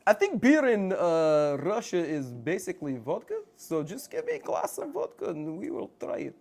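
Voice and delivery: softly put-on Russian accent; mock Russian accent, quietly delivered. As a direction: play a vodka drinker with a Russian accent. Switches to Russian accent for vodka.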